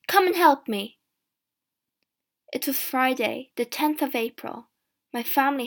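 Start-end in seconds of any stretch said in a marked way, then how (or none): 0.1-1.0 loud, higher-pitched demand; shouting. A narrator's reading. Mother wants Janet's help, shouting. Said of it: "my mother shouted".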